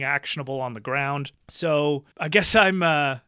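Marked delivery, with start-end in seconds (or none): 1.5-3.2 mock-grand declaration breaking into laughter; tongue in cheek. Real, not acted. Podcast guest declares war on naivete, slightly tongue in cheek. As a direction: declare it half joking, laughing by the end. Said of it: "I'm saying that slightly tongue in cheek".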